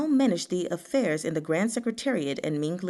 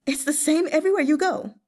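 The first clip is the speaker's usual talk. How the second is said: sighing lament; 9 semitones higher, 5 dB louder, faster than usual. Acted. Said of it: "heaved a sigh".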